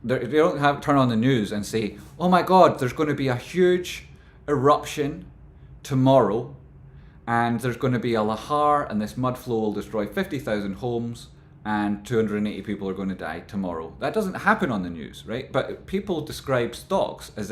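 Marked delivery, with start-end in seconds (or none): 2.2-13.9 mock panic forecast. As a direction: act out an absurd doomsday news flash. Mock newsreader predicting disaster.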